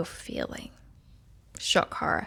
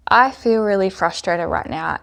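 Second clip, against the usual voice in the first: louder, owning the frustration out loud; loud affirmation; 6 dB louder than usual. Shown as a demonstration. Coach demonstrating tapping, voicing anger louder. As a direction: declare the feeling boldly while tapping. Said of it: "I'm gonna do the points now".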